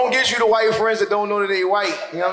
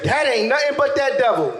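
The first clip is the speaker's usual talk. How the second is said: put-on old folks saying; 4 semitones higher than usual. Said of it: "they used to say".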